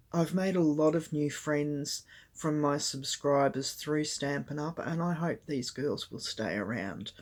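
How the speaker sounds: hoarse, croaky throat. Real, not acted. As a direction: speak through a croaky throat. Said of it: "Please excuse my, my, um, my croaky voice".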